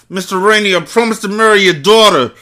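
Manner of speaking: high voice through clenched teeth; wired jaw voice. Shown as a demonstration. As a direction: speak without opening the jaw. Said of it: "Sound like a rapper when he got in the car accident".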